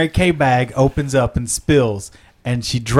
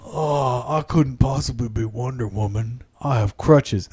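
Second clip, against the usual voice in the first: pitiful Wonder Woman; 4 semitones lower, 5 dB quieter than usual. Acted. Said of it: "she's all".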